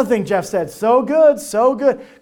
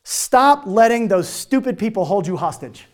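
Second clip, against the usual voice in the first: blunt advice. Retold or imitated. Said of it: "this is what Jeff said".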